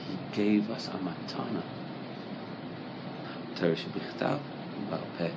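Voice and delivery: hushed and tender. Real, not acted. Teacher tells students the Torah is on their hearts, hushed and tender. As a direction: speak it like a quiet secret of love. Tender close about God's gift.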